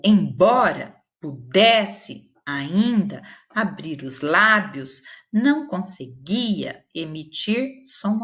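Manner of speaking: measured, slowed reading of a story passage. Acted. Teacher reads the workbook story aloud to her class, unhurried. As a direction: read it like a story to children.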